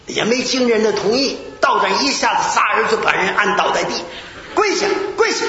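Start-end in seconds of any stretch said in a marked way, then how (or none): 4.5-5.4 commanding order. Retold or imitated. Forcing the man to kneel.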